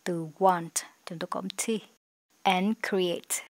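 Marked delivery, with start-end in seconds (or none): 2.4-3.5 very slow, careful English phrase; slow model reading. Shown as a demonstration. Teacher reads the closing phrase slowly to students. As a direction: stretch it out for learners to copy. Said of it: "teacher rereads model phrase".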